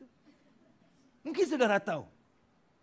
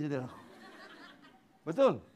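ordinary talk

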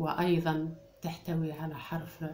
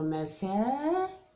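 slow word; 5 semitones higher, much slower than usual. Shown as a demonstration. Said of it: "teacher sounds out the word".

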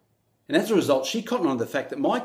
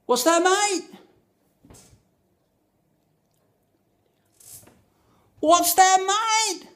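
high, loud shout over the music; repeated shout; 8 dB louder, much slower than usual. Retold or imitated. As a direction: yell it over blaring music. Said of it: "So I repeated".

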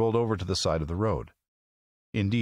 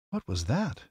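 higher, mildly timid question; 6 semitones higher than usual. A narrator's reading. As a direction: ask it with a touch of timidity. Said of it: "she asked timidly".

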